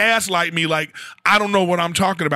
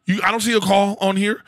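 higher, louder, taunting demand; mock furious taunt; heated challenge; 5 semitones higher, 3 dB louder than usual. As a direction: call her bluff hard. Confronting driver by text.

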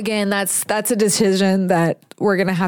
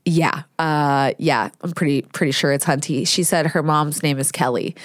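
a lightly lowered, hesitant man's voice; 6 semitones lower than usual. Retold or imitated. Stranger tells a mother her daughter named her, low and hesitant. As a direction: play the unsure stranger, dropping lower. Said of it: "And he was like".

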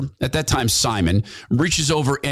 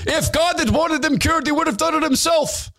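a hint of an upset rabbi, pitched up; mild mock indignation, higher voice; 14 semitones higher than usual. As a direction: lightly voice the rabbi's high indignation. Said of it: "really upset".

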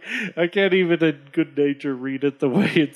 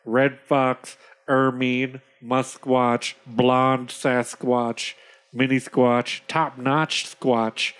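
slow list of pelts, item by item; lightly voiced, deliberate chief; deadpan chief; 2 semitones lower, slower than usual. Plays the chief listing pelts.

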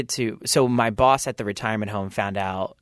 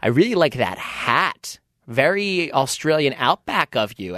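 drawn-out, slightly raised mock compliment; backhanded compliment; 4 semitones higher, slower than usual. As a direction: stretch out the praise to sneak in a dig. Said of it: "like, backhanded compliment".

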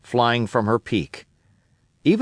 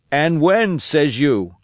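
put-on old castaway Ben Gunn; 2 semitones higher, slower than usual. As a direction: spin the tale of Flint like a wild old castaway. Ben Gunn voiced in story.

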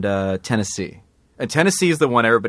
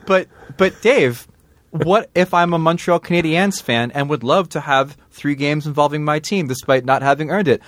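infomercial customer; 4 semitones higher than usual. Pretend. Plays infomercial customer again.

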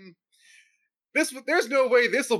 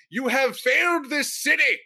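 crackling lightning voice; 7 semitones higher, 5 dB louder, slower than usual. Retold or imitated. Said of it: "in your lightning round voice".

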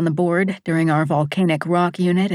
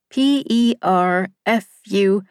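spelling it out slowly; slower than usual. Retold or imitated. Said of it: "Missus Abbott ... pronounced for us".

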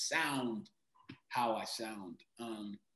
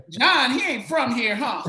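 high, loud mock holler; calling out accusingly; 11 semitones higher, 11 dB louder than usual. Actor imitates mom exposing him to director, calling out accusingly. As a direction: yell it across the room, hammed up. Mom calls out her discovery.

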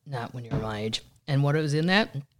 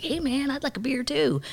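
much higher goofy dude voice; mock buddy voice; 12 semitones higher than usual. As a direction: pipe up like a silly cabin buddy. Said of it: "the other one's like".

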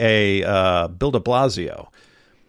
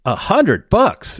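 high, slow, sarcastic A hundred bucks; mocking disbelief; 9 semitones higher, slower than usual. Real, not acted. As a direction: drag out the scoff, high and slow. Mocking the vaccine incentive.

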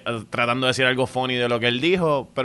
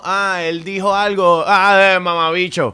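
higher, louder crude retort; mock insulting comeback; 6 semitones higher, 6 dB louder than usual. Comic lashing out at a heckler, loud and crude. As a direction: fire back a crude insult. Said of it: "No, no".

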